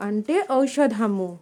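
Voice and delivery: slow demo. Shown as a demonstration. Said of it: "teacher demo of Telugu word".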